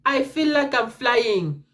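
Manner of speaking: slow, drawn-out dazed answer; dazed drawl. Retold or imitated. Repeats dazed answer while high.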